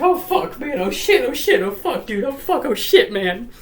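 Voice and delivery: high, repetitive mock panic; Mike. Big brother realizing what he has done, high-pitched panicked babbling. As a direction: babble it in a hammed-up fright. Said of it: "And, and Mike's like".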